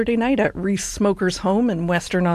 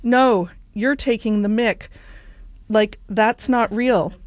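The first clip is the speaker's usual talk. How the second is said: shaky attempt at an Australian accent; slower than usual. Friends replying to the frog news, put-on Australian accent. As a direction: disbelieve it in an amateur Australian accent. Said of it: "in my best Australian accent here".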